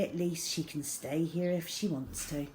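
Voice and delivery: ordinary delivery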